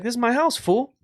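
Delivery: dog voiced as a cocky homeowner; territorial dog voice. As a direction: voice the dog telling off the intruder. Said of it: "your dog's like".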